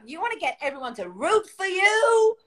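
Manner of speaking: hammed-up, high-pitched encouragement; excitable biker couple. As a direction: imitate an overexcited biker cheering someone on. Imitates couple urging her on.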